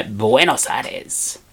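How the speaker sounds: Buenos Aires slowly in an Argentinian Spanish accent. Shown as a demonstration. Man telling a travel story says the city with an Argentinian Spanish accent. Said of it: "you can't say Buenos Aires without saying it in the, uh, Argentinian Spanish accent".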